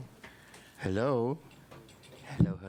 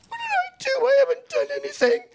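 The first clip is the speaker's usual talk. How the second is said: much higher, fast, tearful wail; crying child; 6 dB louder, faster than usual. Retold or imitated. Tween boy pleading with his teacher, crying out. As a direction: plead through sobs.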